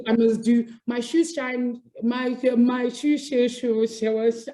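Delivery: stumbling through a tongue twister; real fumbled twister, slowing as it tangles; tongue-tied. Real, not acted. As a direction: trip over the sh sounds and restart. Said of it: "I can't do, I can't do it".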